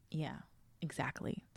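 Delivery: breathy knowing whisper. Real, not acted. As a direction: whisper it like a secret. Knowing aside after the reveal.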